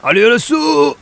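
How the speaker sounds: loud, high battle shouts; panicked shout. Real, not acted. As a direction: yell through the boss fight. Boss fight.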